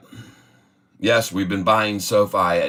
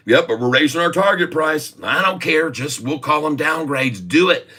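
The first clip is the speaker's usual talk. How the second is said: insistent banker; 5 semitones higher than usual. Retold or imitated. Argument ending the imagined call.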